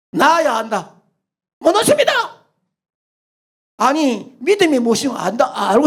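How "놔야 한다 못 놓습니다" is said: much higher, clinging in panic; young man refusing to let go, high; desperate refusal. Acted.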